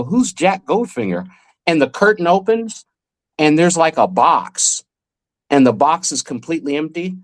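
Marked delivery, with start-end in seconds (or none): 0.0-1.3 retold bewilderment, higher pitch; puzzled question. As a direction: ask it higher, as a baffled kid would. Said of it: "And I go".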